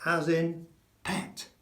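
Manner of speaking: "pet" with a short open e. Shown as a demonstration. Spanish teacher models the short e sound. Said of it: "It's never E".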